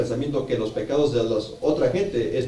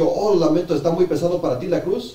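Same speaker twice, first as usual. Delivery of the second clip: higher, lightly acted concern; mock apology; 5 semitones higher than usual. Interpreter voices onlookers apologizing to Jesus, mock concern. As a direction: echo a mock apology, pitched up.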